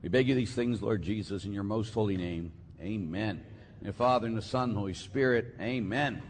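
even, low-pitched congregational prayer; opening prayer. Real, not acted. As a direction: pray evenly, falling away at each amen.

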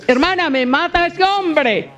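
súplica más aguda y lenta, con miedo fingido; mujer temerosa. Retold or imitated. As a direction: imitando a una mujer asustada que ruega. Cita a una mujer asustada. ("Hermana, me mata ese hombre" dicho con un leve temor fingido)

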